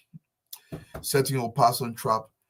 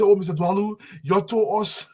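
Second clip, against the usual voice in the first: voicing the angry people back home, raised high; complaining voters; 8 semitones higher than usual. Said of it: "They tell us".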